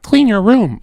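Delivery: high, mocking quote of advice. Mocking Jordan Peterson's advice.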